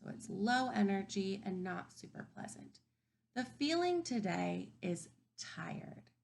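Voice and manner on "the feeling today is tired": tired voice. Shown as a demonstration. Teacher modeling a tired feeling for kids, slow and drained. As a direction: drag it out like you're worn out. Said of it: "Can you say that?".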